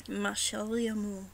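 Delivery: clumsy French accent, careful; a shaky French accent attempt. Shown as a demonstration. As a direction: sound out the French phrase in a French accent. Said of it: "my slaughtering of French".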